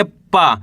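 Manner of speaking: पा with a long, held aa; drawn-out vowel. Shown as a demonstration. Teacher sounding out the first letter for learners, drawn out. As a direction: stretch the vowel in पा. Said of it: "पा का उच्चारण खींच के".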